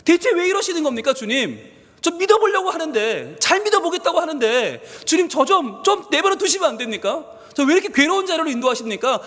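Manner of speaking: high-pitched, pleading outcry to God; acted despairing protest in prayer; acted anguished plea. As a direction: plead as a sufferer at wits' end. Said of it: "고통의 자리에서 우리 주님께 외칩니다".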